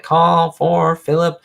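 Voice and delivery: slow sing-out imitation of a bellboy; bellboy's call. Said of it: "Bellboy guy. And he was like".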